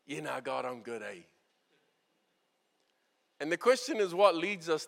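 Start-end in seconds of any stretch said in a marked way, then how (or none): 0.0-1.2 easygoing yeah nah; casual brush-off. Shown as a demonstration. Preacher showing how we'd say it, breezy. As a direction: shrug it off casually. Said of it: "Most of us would be like".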